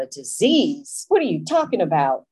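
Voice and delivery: acted-out scoffing disbelief; incredulous. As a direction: question it as if it's absurd. Acting out disbelief at a lesson.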